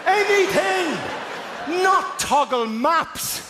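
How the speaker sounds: high, slow, desperate shouted pleading; frantic yelling. Retold or imitated. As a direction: yell at the screen in despair.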